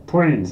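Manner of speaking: "Twins" said with the speaker's own nasal twang; goblin accent. Shown as a demonstration. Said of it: "That is how I say it".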